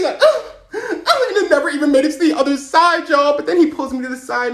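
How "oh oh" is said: high, loud mock yelp; effortful yelp. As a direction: yelp as if throwing feebly. Acting out a feeble throw.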